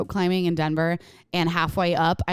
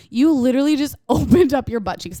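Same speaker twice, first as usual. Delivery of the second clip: laughing; 6 semitones higher, 5 dB louder than usual. Retold or imitated. Sister's teasing quote, laughing.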